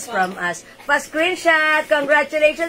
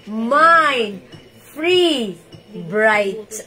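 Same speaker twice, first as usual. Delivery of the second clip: each word set apart with a pause; Mind, Free, Bright said slowly one at a time with a pause after each; 4 semitones lower, much slower than usual. Shown as a demonstration. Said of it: "I-comment nyo na". (isa-isang salita, may hinto sa bawat isa)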